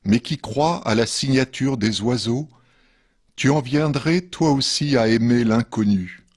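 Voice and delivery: measured poetry reading with pauses between verses; poem reading. Acted. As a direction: read each verse line apart, letting it settle. Reads second poem after musical break. (lecture de poème posée)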